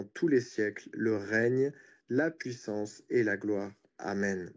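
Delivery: measured recitation of a prayer; prayer reading. Real, not acted. Preacher reads the Lord's Prayer to listeners, measured prayer reading.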